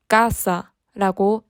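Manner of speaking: 가사 with the first syllable 가 stressed, slowly. Shown as a demonstration. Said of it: "가사가 아닌 가사". (가사 앞 음절에 강세를 주어 천천히)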